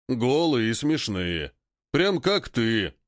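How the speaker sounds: slow mocking ape voice; teasing ape voice. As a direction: drawl it, teasing. Ape teases leader. (медленный насмешливый голос)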